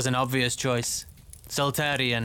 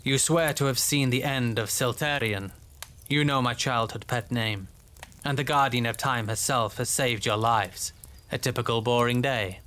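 deadpan irony, lightly lowered; understated irony; 3 semitones lower than usual. Acted. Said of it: "with flawless, understated irony".

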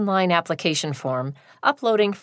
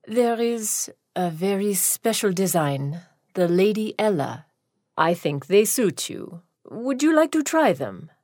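sly shoe designer. Acted. Shoe designer's voiced lines.

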